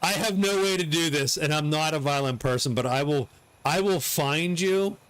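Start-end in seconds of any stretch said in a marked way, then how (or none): 3.7-5.0 slow, lightly menacing warning; a hint of a movie hero's vow of revenge; Liam Neeson threat. Warning chat viewers to keep a secret, mild mock menace. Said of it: "Liam Neeson style".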